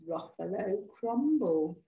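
slow, measured storybook threat; deliberate menace. Acted. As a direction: savour the dish name, unhurried. Mouse delivers the threat.

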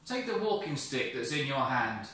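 a lightly voiced firm, calling God; name him with authority. God commands.

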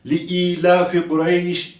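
slow "ilafi" with a long held i; elongated i. Shown as a demonstration. Quran teacher repeating the correct reading, vowel stretched. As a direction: draw out the first i of "ilafi". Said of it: "i şeklinde mutlaka uzatıyoruz".

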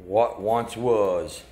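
deep, slow dramatic intro voice; low trailer announcer. Acted. Dad introducing the old fire truck in a deep trailer voice.

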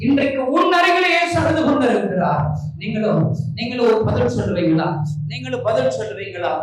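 loud, ringing pulpit voice; fervent preaching. Acted. Preacher telling the congregation Jesus weeps, loud and fervent. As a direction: proclaim it to the whole hall.

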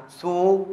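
"Su" as one open syllable; đọc mẫu. Shown as a demonstration. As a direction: sound out "Su" with a long open u. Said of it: "Thế thì đọc là gì ạ". (đọc mẫu "Su", âm u mở)

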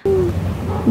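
high, slow, amazed squeal; excited squeal. Retold or imitated. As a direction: squeal it out in delight. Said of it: "I'd be like".

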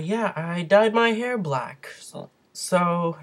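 talking through hiccups. Real, not acted. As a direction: voice jumps high with hiccups. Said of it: "sorry, I have the hiccups".

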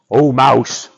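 lightly voiced grumpy lion; grumbling lion. A narrator's reading. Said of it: "grumbled Lion".

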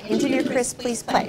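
softly showing the words to say; a soft run-through before the real call; quiet preview. Shown as a demonstration. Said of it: "We're gonna say".

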